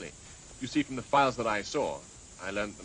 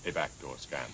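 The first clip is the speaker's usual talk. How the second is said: "A backdoor scam." said lower, mimicking Ty; imitating Ty; 8 semitones lower than usual. Husband quoting his friend Ty, imitating him lower. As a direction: drop the pitch and echo "A backdoor scam." like Ty. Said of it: "as Ty would say".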